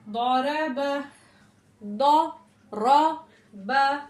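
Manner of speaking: दौरब split slowly, heavy R; teacher spelling a word for students; spelling demo. Shown as a demonstration. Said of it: "रॉ को मोटा पढ़ेंगे".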